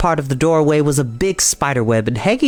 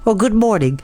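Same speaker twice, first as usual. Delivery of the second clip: a friendly spider calling down, higher; lightly voiced spider, cheerful greeting; Charlotte's voice; 7 semitones higher than usual. A narrator's reading. Charlotte the spider greets the pig Wilbur from the doorway, friendly.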